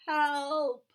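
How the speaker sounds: loud, high cry for help. Acted. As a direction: yell for help while squashed. Squashed under chicks.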